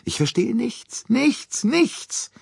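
viel höher, sich steigernd verzweifelt; verzweifelter Bouc. A narrator's reading. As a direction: ringt hilflos die Hände mit der Stimme. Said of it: "seine ganze Hoffnungslosigkeit verriet". (Bouc klagt Poirot hoch und verzweifelt seine Ratlosigkeit)

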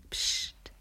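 whispered hush. A narrator's reading. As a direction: breathe it as a secret. Secretive hush. (geheimnisvolles Flüstern)

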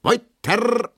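the dance master calls the couples on; calling out. Acted. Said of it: "ruft der Tanzmeister". (Tanzmeister ruft laut und hoch)

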